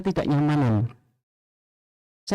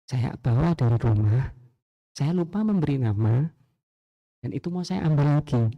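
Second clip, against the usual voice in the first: polite model apology; 3 semitones lower than usual. Shown as a demonstration. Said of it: "Nak, coba bilang".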